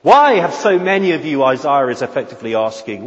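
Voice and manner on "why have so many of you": higher, louder grieving plea; sorrowing prophet pleading with the people; overwhelming sorrow. Shown as a demonstration. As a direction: ask it with overwhelming grief. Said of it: "asked in a tone of overwhelming sorrow".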